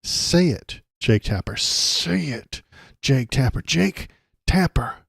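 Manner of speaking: loud, insistent call-out; demanding shout. Real, not acted. Host demanding Jake Tapper speak, shouting. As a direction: push him to say it.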